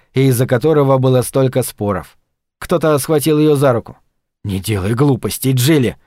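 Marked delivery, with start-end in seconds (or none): 4.5-6.0 lower-pitched, restrained reassurance; understated soothing with a touch of anxiety; uneasily soothing. A narrator's reading. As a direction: try to calm her, with worry underneath. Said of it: "придать голосу успокаивающую интонацию".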